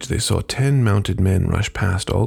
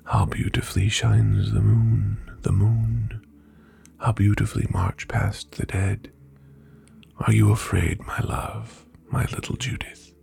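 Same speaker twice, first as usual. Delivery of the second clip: eerie whisper; 4 dB quieter than usual. Acted. Ghost lover repeats eerie refrain.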